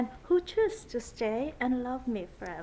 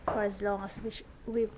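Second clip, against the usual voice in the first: saying wedding vows; 3 semitones lower than usual. Real, not acted. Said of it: "would you repeat after me?".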